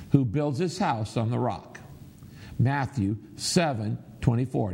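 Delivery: measured reading in separated phrases; group recitation aloud. Shown as a demonstration. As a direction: lead the room through it, pausing between phrases. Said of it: "read our memory verse aloud together".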